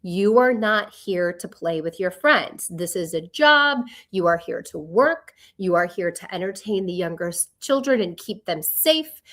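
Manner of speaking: measured, firm retold lecture; retold parental lecture. Mother to her sons before camp, retold lecture. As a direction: lay down the rules point by point. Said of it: "I'm giving them the lecture".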